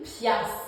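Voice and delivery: "pièce" said the Quebec way, as "piasse"; Quebec pronunciation. Shown as a demonstration. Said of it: "no, here it would be".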